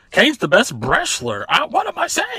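high-pitched hammed-up commentator; mock commentator. Teasing the wrestling commentators about their patter, mock commentator squeal. Mimics the commentator's excited calls.

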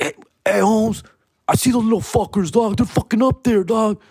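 high, fast put-on cholo voice, mildly imitated; mock the angry cholos spotting you; imitating cholo voice. Cholos spotting kids on the roof, high imitated voice. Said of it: "and they're like".

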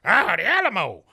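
high, loud awed exclaim; hammed-up wonder; Topsy admiring. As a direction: announce the landmark with delight. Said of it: "and he goes".

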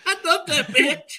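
high, slow froggy voice; frog puppet voice. Pretend. Joking as Kermit.

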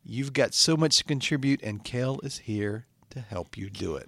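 recited self-help show opening; podcast intro. Acted. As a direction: finish the inspirational intro with deliberate weight. Host resumes recited intro.

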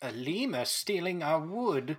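put-on old man voice. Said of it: "Say it in the old man voice again".

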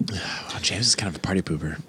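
hushed teasing whisper; whispered aside. Real, not acted. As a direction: whisper it behind his back. Aside jab at James.

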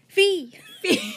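high startled cry of the name; startled gasp. Acted. Changbin startled by Felix in his room, squealing. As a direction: yelp the name in fright. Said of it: "Changbin gasped".

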